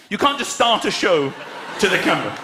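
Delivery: ordinary delivery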